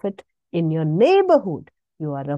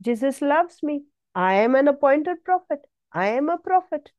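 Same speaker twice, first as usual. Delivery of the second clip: joyful confession; 6 semitones higher than usual. Shown as a demonstration. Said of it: "you speak one word".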